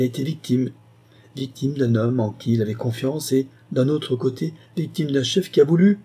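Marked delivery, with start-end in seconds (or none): 4.8-6.0 émue, montée. Acted. Elle hésite, émue.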